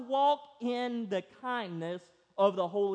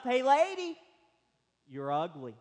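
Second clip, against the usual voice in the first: parrot calling out; 3 semitones higher than usual. Acted. Parrot repeats its insult.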